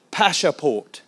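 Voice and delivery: put-on not very good French accent; one-word demand in a put-on French accent. Policeman demanding documents at the roadside, rough French accent. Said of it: "I'm doing a French accent, not a very good one".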